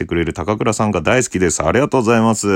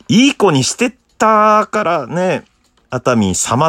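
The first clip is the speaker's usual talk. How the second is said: playful; 8 semitones higher, slower than usual. Acted. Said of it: "teasing Santa".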